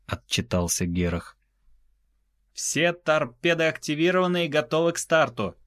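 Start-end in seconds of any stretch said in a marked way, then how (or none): 2.5-5.5 higher voiced officer report; crisp report to the captain; assistant's voice. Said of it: "послышался голос помощника".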